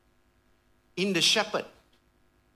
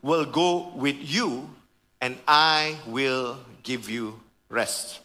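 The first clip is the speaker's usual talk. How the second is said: voice of God; 5 semitones lower, slower than usual. Acted. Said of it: "He says".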